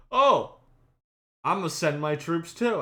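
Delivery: mock excited Brandon. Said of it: "Brandon goes".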